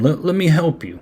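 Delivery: mock the naive helper with a high voice; mock timid plea. Mocking the partygoer who offers Freddy help, pitched high. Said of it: "you wouldn't say that".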